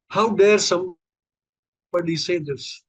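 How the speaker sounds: outraged at the book title, drawn out; agitated outrage. Retold or imitated. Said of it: "he was visibly agitated".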